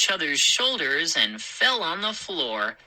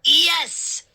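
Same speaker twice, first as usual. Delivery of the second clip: high, loud gleeful yes; happy cry; 12 semitones higher, 5 dB louder than usual. Acted. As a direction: cheer with delight. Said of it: "Hap and Chip declared happily".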